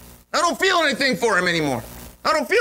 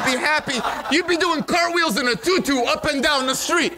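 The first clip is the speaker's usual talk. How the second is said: laughing through the words; amused, laughing description; 5 semitones higher than usual. Real, not acted. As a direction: giggle as you paint the silly picture. Laughs while describing image.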